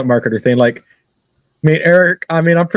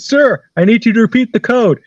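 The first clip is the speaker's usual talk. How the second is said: higher-pitched, mock-exasperated demand; insistent telemarketer; 6 semitones higher than usual. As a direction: imitate a caller pressing for an answer. Retold telemarketer insisting on the code.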